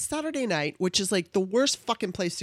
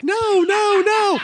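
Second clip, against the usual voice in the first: high, loud laughing no, no, no; mock panicked denial with laughter; 13 semitones higher, 8 dB louder, much slower than usual. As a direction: protest through a laugh. Denying being on PCP, laughing.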